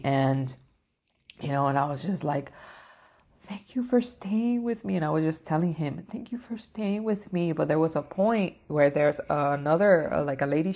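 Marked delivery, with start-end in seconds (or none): 3.4-5.0 put-on high, small thankful little-girl voice; grateful little girl. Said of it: "like this little girl". 6.1-7.5 put-on high, small thankful little-girl voice; grateful little girl. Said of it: "like this little girl".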